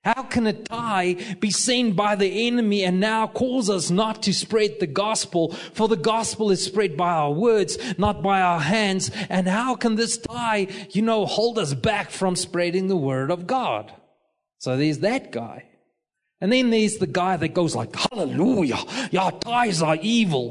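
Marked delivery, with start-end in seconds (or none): 0.0-13.9 higher, mildly incredulous questioning; baffled objection. Retold or imitated. Guy in the seat questioning the preacher, mildly baffled. 18.0-20.5 hammed-up hallelujah cheer in a put-on voice; over-zealous churchgoer. Churchgoer agreeing ties are evil, mock zealous.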